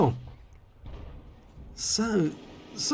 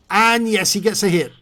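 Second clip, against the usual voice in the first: louder, punchy call of the hit; excited call; 6 dB louder than usual. Real, not acted. Commentator calling the hit for viewers, excited and loud. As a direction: cheer the hit as it lands. Commentator calls a successful shot.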